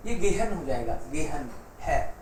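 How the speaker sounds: गेहन with the h voiced between vowels; sounded h demo. Shown as a demonstration. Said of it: "इधर भी vowel आ जाए".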